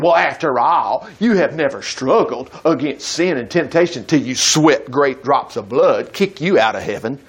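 snide attitude. Shown as a demonstration. Preacher mocking a condemning attitude toward sinners, snide and low. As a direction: sneer it like a self-righteous scold. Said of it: "We're supposed to throw an attitude".

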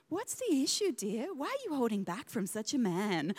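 a hint of a swooning cartoon princess; Frozen movie line. Mum imitating son quoting Frozen in the mirror, lightly dramatic. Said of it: "Like, straight from Frozen".

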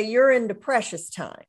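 "precious" leaned on in "You're into precious time"; weight the word "precious", the rest light; "precious" carries the stress. Retold or imitated. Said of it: "where the emphasis was on the word precious".

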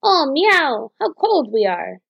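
a high meowing cat's wail on "Oh, meow!"; crying cats. A narrator's reading. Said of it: "a cry suddenly came".

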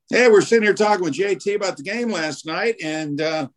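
a light take on a radio host springing the caller; mock radio host. Retold host's on-air teasing.

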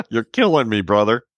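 laughing through the words; cracking up as you say it; real laughter, pitch up. Real, not acted. Host laughing at the yawning portrait.

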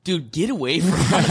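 laughing retelling. Retold or imitated. Comic retelling cops to the injured man, laughing. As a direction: brush him off while cracking up.

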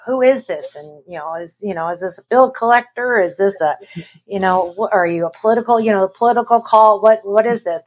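lightly voiced wary "who is this" screening a call; mild mock suspicion; imitating his guarded tone. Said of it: "That tone, you can hear it in his voice".

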